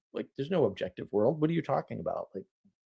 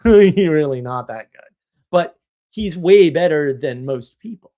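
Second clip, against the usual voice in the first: laughing boast; 9 dB louder than usual. Real, not acted.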